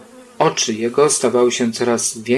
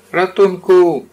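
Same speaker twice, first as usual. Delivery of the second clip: higher, louder yelp while falling; cry for help; 7 semitones higher, 7 dB louder, slower than usual. Acted. Bear cries out tumbling from the tree. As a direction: yell for help as the branch snaps. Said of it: "zawołał Puchatek".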